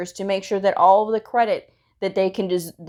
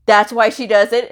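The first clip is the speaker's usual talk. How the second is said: louder rising surprise; surprised question; 2 semitones higher, 6 dB louder than usual. Retold or imitated. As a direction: sound amazed at the reason. Ortho group surprised by reason.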